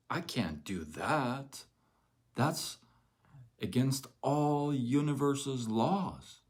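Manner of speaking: whiny, dragged-out scoffing; mock skeptic. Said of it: "sitting here and thinking".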